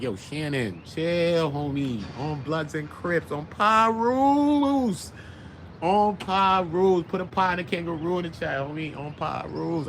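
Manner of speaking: slow, drawn out street plea; slow gang member voice. Retold or imitated. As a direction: stretch the words, pleading.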